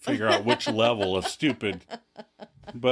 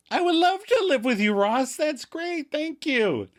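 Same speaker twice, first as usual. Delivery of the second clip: much higher, gushing and bright; excited. Acted. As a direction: gush with delight. Rachel gushing over moving in.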